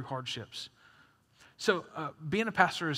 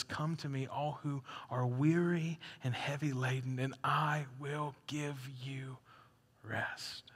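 tender invitation; 3 semitones lower, 5 dB quieter than usual. Acted. Jesus's gentle invitation, softening to a whisper.

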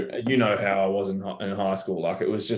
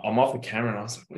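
mild retold bewilderment; 2 semitones higher, much faster than usual. Player to coach off camera after the interview, mildly bewildered. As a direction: lightly imitate a baffled aside.

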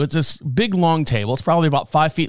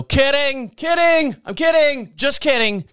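high, repeated singsong retraction; falsetto-like mock reassurance; joking backpedal; 9 semitones higher, slower than usual. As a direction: re-enact hastily taking back a joke, pitched way up. Retells hasty backtracking to the wife.

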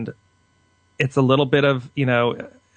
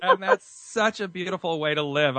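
smiling voice; 4 semitones higher, 5 dB quieter than usual. Real, not acted. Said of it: "I'm smiling so much right now".

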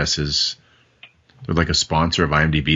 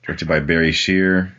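trying not to laugh. Real, not acted. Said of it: "You sound like you're trying not to laugh through that".

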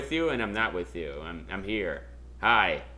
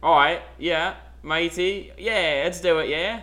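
put-on failed British accent; slower than usual. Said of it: "Isn't that Australia?".

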